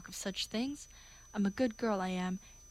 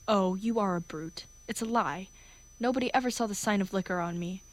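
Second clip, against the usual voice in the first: indignant outburst; 4 dB louder than usual. Acted. Liza turns on Higgins.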